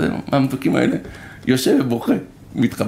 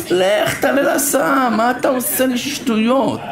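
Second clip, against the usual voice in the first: higher, slow, fed-up scolding; exasperated mother; 6 semitones higher, slower than usual. Retold or imitated. Mother sending her son back to the school bus, exasperated and slow. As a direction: shoo the kid back onto the bus.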